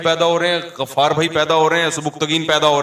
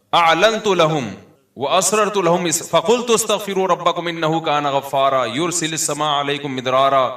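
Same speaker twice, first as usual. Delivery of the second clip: slow, ringing Arabic recitation; Quran recitation; slower than usual. Acted. Preacher reciting Noah's call to his people, sustained recitation. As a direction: carry the verses on long drawn-out vowels.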